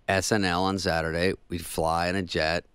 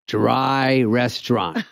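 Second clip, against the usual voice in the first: very slow, flat-out deadpan; slow blunt verdict; 3 semitones higher, 3 dB louder, much slower than usual. Retold or imitated. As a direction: lay it down slowly, no argument. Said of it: "And she goes".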